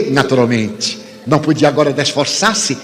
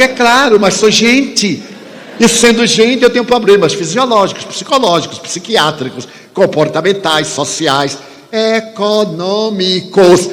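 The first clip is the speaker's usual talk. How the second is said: each word spelled out syllable by syllable, higher; syllabled emphasis; 5 semitones higher than usual. Retold or imitated. Speaker answering the stranger, each word syllabled and stressed. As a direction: hammer out every word separately. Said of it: "pronunciei a palavra bem silabada".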